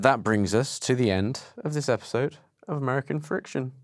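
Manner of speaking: weird, halting sign-off with little conviction; weirdly said sign-off. Real, not acted. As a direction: wrap up the show unconvincingly. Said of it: "I hate the way you said that".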